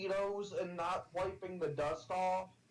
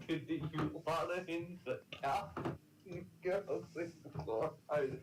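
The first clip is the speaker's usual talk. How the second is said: laughing. Real, not acted. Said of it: "I can't even say it without laughing".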